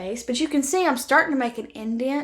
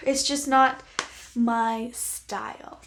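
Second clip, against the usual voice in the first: slow, sighing letdown; regretful sigh; much slower than usual. Real, not acted. Vlogger gently rejecting her friend's shade, sighing and slow. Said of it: "it crushes me to say that".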